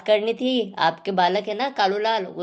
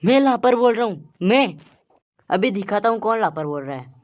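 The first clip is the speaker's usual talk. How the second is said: angry teacher; 2 semitones lower than usual. Acted. Teacher called a liar, threatens.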